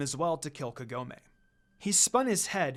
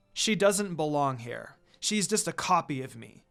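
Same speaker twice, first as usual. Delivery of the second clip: angry. Acted. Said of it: "Kikyo said in anger".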